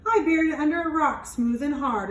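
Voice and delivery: sly leprechaun. Acted. Leprechaun fibbing to the children about his gold, quick and high. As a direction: rattle it off like a tricky little elf.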